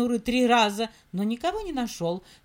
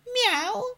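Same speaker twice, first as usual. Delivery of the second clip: meow; 9 semitones higher than usual. Acted. Mysterious meow in story.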